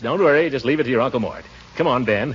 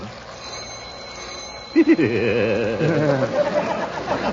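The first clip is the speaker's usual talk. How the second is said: chuckle; 2 semitones lower than usual. Acted. Laughs at twist doorbell.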